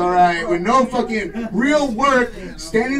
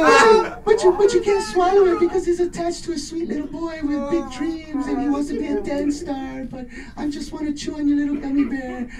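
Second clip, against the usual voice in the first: a hushed, high, creepy plea; impression of a singer; 5 semitones higher than usual. Comic playing a singer denying it, high and hushed. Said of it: "he's like".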